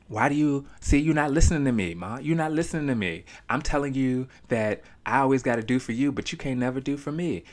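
mock the stranger whining he's not heard; imitating the guy on the phone. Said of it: "he got on the phone with his girl".

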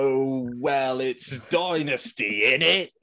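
hammed-up cockney geezer accent, half-failed; lightly done British geezer voice; mock British accent. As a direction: put on a bad London accent for laughs. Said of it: "I tried to do that in an accent".

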